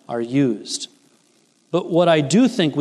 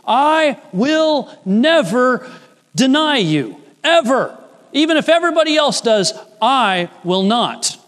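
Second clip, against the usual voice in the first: much higher and louder, insistent vow; preacher acting Peter's proud vow to Jesus, raised and insistent; boastful Peter; 9 semitones higher, 4 dB louder than usual. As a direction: swear it as the proud disciple, rushing the middle. Peter's boast, acted with fervour.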